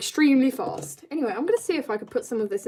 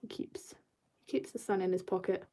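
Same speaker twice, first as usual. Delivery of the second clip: whisper; 3 semitones lower, 11 dB quieter than usual. Real, not acted. Whispered comment while drawing.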